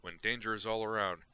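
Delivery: loud, relentless rant of a wild reporter; fired-up gonzo journalist. Acted. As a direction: hammer it out like a manic columnist. Duke declares his philosophy.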